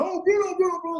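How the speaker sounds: put-on sing-song call of a child star's name. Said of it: "'Cause they were like".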